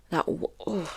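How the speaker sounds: stifled frustration, breaking off mid-word; holding back anger. Real, not acted. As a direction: cut yourself off with an exasperated groan. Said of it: "Let me not get angry".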